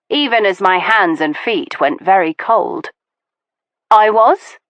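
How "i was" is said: louder, small rising disbelief; can't quite believe it; stunned. Acted. Veronica, stunned he admits it, rising disbelief.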